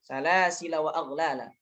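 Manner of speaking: Salasila with short -la running into wa aghlala; joined reading. Shown as a demonstration. Teacher shows the continuation, Salasila joined without the alif. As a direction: recite it linked, final a of Salasila short. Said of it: "Ketika wasal alif tidak di".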